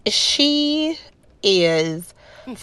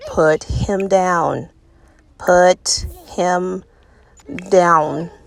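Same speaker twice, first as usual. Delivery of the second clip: frustrated; much slower than usual. Real, not acted. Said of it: "because I'm getting frustrated".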